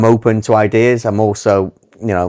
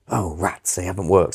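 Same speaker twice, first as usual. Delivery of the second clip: softer, low muttered letdown; understated, as if truly let down; quietly crestfallen in character; mock earnest disappointment; 2 semitones lower, 6 dB quieter than usual. Voicing Harry taking failed idea seriously.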